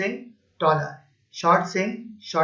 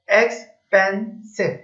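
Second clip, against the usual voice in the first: slow demo; much slower than usual. Shown as a demonstration. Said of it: "इस word को अदा करने के लिए मुझे अपनी ज़ुबान को तीन मरतबा मूव करना".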